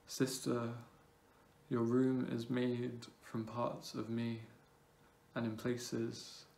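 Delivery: measured poem reading with long pauses between phrases; spaced-out, deliberate poetry recital. Acted. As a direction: recite it line by line, letting each phrase hang. Reads own poem aloud.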